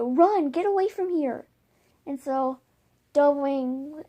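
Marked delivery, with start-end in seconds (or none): 0.0-1.5 urgent yell. Acted. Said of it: "she yells out to Dovewing".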